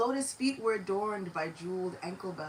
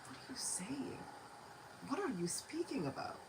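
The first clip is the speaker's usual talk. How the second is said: hushed, breathless whisper of disbelief; stunned whisper; shocked whisper; 4 semitones higher, 9 dB quieter than usual. Acted. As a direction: whisper as if afraid to be heard. Startled priest answering the child.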